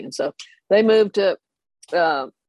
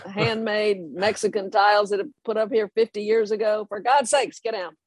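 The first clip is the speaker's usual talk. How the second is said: angry colonel; 5 semitones higher than usual. Retold or imitated. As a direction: bark at the kids on the roof like an outraged colonel. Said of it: "Colonel Poole is like".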